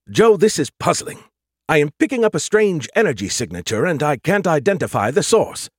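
puzzled AI character. Acted. Skippy reporting a strange energy signature, puzzled.

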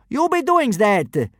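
high, slow smug grin; grinning. A narrator's reading. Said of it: "grinned the first kidnapper".

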